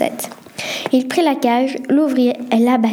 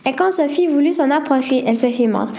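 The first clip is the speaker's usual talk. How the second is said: ordinary delivery, nothing marked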